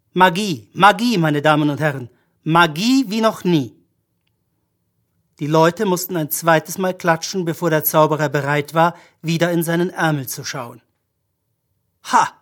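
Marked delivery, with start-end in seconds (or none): 0.1-3.7 lightly declaimed stage patter; showman's announcement. A narrator's reading. Magician hails his audience after the cat trick, announcing. 12.0-12.3 short exclaimed find; called out. A narrator's reading. Magician looks into his sleeve, calling out in discovery. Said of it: "rief er".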